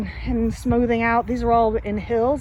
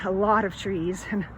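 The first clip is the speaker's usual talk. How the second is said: breathless from walking the yard; winded, short of air; out of breath; 3 semitones lower, 4 dB quieter than usual. Real, not acted. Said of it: "sorry, I'm out of breath".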